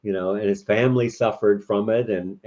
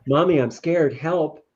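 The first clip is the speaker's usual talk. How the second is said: put-on higher, mildly scared child; emotional plea; 5 semitones higher than usual. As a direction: lightly voice a child asking Mommy for help. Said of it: "an emotional request".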